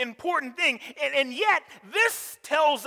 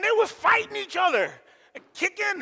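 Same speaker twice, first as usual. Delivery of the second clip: 1 exclaimed; 9 semitones higher than usual. Real, not acted. Kids fighting over the money.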